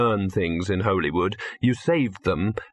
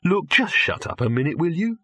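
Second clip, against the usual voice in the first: higher-pitched, impatient snap; irritable; 7 semitones higher than usual. A narrator's reading. Victor trying to listen, irritable. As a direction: cut off the chatter crossly. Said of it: "said Victor irritably".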